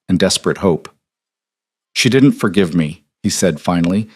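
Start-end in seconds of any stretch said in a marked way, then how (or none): 1.9-3.0 muffled, face pressed to a shoulder. Acted. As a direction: speak muffled through fabric. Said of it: "his voice muffled against Emily's shoulder".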